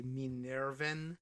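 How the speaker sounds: Minerven said the Spanish way, mee-NEHR-ven, trilled r. Shown as a demonstration. Reading the company name, trying the Spanish pronunciation. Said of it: "I guess in Spanish accent".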